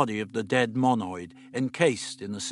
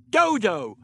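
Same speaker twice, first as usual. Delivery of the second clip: louder, sharp correction; indignant; 9 semitones higher, 7 dB louder than usual. A narrator's reading. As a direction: snap back her name. Correcting her name.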